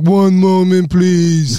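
mother's phone voice. Retold or imitated. Mother answering the Haitian friend, polished phone voice. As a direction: mom turning formal for the caller. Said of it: "transformed herself".

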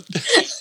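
short airy laugh; breathy laugh. Real, not acted. Laughs at the Vegas joke.

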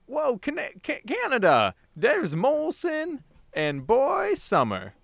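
high, very slow caterpillar read. Acted. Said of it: "a caterpillar type voice".

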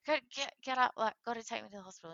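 high, loud, excited urging; reenacted breathless-to-go urgency; urgent. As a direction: rouse someone for an emergency dash. Retold rousing brother for transplant.

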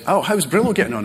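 a light, innocent question in his wife's voice; imitating wife. Wife innocently asks about the dog, light mock voice.

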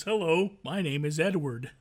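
slow, mock-proper introduction. Shown as a demonstration. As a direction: imitate proper Connecticut speech, drawn out. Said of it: "I'm gonna start talking like this".

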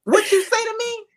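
Hulk rage. Acted. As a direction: go full Hulk at a sneeze. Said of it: "Hulk mad".

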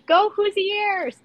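"Hoosiers" cheered high and slow, said oo-SYAIR the French way; French-style Hoosiers. Retold or imitated. First game at Indiana, cheering Hoosiers the wrong way. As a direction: call out "Go Hoosiers" high and drawn out. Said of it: "and I go".

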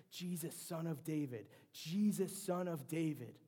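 crying out. Retold or imitated. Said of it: "he's crying out to Jesus".

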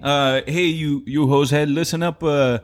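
mock Canadian accent. Pastor jokingly talking to the congregation in a hammed-up Canadian accent. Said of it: "a Talk Like a Canadian Day".

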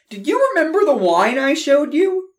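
high, loud, eager question; brother's voice. Acted. Chris quizzing his brother about the wine, high and eager. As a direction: ask it like a proud big brother.

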